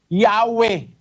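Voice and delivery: "Yahweh" with A first and an E ending; Yahweh with A then E. Shown as a demonstration. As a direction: say "Yahweh" as YAH-weh. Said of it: "A E". (bigkasing "Yahweh" na A at E ang patinig)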